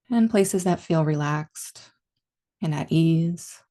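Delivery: calm meditation guide, long pauses between phrases; guided meditation. Real, not acted. Teacher leading listeners into body and breath awareness, calm guided meditation. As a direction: ease them gently inward, leaving space after each instruction.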